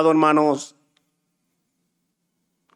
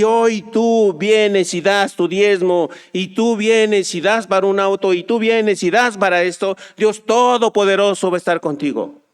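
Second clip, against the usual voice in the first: mocking a TV preacher. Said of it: "charlatanes de televisión".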